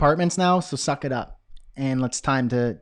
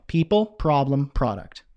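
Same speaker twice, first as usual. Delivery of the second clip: deliberate second attempt, falling on the last word; careful retry; slower than usual. Real, not acted. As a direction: say it slowly and cleanly, word by word. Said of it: "try it again".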